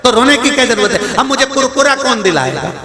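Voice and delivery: high childish mock-sobbing voice; small grandson complaining through mock tears; crying grandson. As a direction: play the little grandson wailing. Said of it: "वो रो रहा था".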